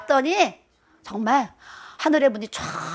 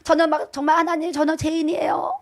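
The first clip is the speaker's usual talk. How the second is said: tearful prayer; 4 semitones higher than usual. Retold or imitated. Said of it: "막 울면서".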